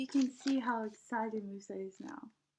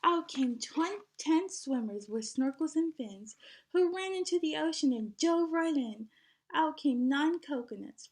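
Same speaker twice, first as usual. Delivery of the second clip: lively storybook read-aloud; singsong picture book reading; reading to children; 2 semitones higher than usual. Acted. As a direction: read it like story time for a class. Teacher reads picture book aloud.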